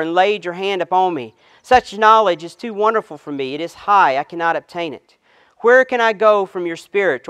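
measured, solemn reading of the psalm; scripture reading. Acted. Pastor reading Psalm 139 to the congregation, solemn and measured.

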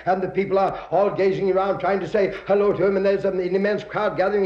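normal talking voice

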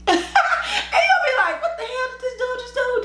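high, laughing bewildered quote; laughing high disbelief. Retold or imitated. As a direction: laugh through the question. Mock bewildered reaction.

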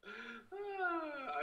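high drawn-out "aah" whine; mock-sad whine. Real, not acted. Streamer about missing the Twitch live, high whine. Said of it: "I'm, I'm sad".

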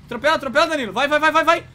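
yelling at his teammate; frantic urging shout; real yell in the heat of the game. Real, not acted. Urging teammate to run over.

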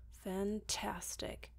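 slow, sour sarcastic grunt. Acted. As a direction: grunt it out, deeply unimpressed. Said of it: "he grunted".

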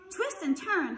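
high, lightly acted goose call; a touch of goose honk. A narrator's reading. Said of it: "honked the goose".

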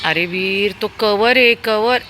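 high, loud warning call. Real, not acted. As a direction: shout a warning across the parking lot. Warning child from a distance.

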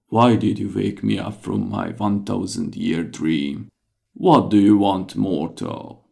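grand, irritated spirit of the lamp; genie. Acted. Genie woken from thousand-year sleep.

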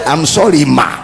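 timid apology. Retold or imitated. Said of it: "He's so intimidated".

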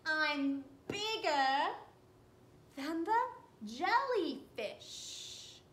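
a lightly voiced proud squid, bragging; boastful giant squid. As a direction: puff up as a proud squid showing off.

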